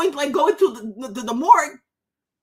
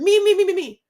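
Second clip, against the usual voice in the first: mocking me me me; 4 semitones higher, 4 dB louder than usual. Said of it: "Liberals is always all about them".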